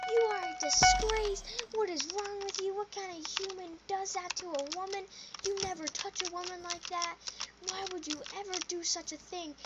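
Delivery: hammed-up disgraced-at-you lecture; scolding lady. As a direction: scold like an appalled woman. Imitating lady scolding the boy.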